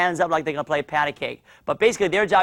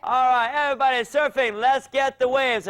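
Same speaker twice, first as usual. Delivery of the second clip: excited game leader; 7 semitones higher than usual. Pretend. Coach leads kids in pretend surfing, excited call. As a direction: get everybody into the game.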